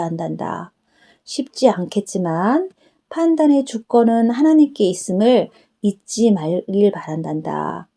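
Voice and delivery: a hint of a tender Jesus explaining to his daughter; Jesus speaking. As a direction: answer her kindly as the Lord. Jesus instructing about prayer.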